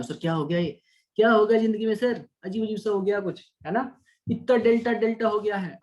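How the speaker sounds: bewildered student. Acted. Teacher voicing confused students after the derivation, mock bewildered. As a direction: play a student lost in all the deltas.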